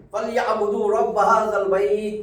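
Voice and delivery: slow Quranic recitation; measured Arabic sura reading; surah recitation. Shown as a demonstration. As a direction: recite the verse slowly, vowels drawn out. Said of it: "আমরা একটা সূরা পড়ছি না".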